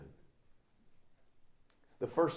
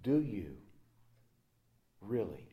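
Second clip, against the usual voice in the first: soft question fading into a whisper on love me; 4 semitones lower, 5 dB quieter than usual. Acted. Jesus to Simon, third time asking, whispering. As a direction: lean in and whisper it.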